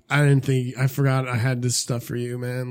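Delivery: mildly imitated stoned slowness; slow stoned talk. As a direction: play it a little dazed and slow. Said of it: "I'm talking all slow".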